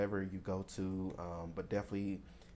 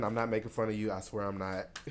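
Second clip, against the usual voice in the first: ordinary delivery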